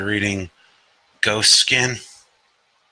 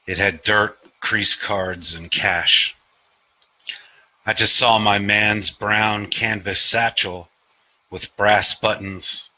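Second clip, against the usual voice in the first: measured recital, line by line; lightly stylised poem cadence with falling ends; poetry reading. Acted. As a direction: read it as verse, pausing after each image. Reads own poem aloud.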